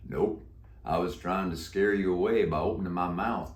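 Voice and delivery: put-on a croaky old Western cowboy; deep croaky voice. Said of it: "He answered in a deep, croaky voice".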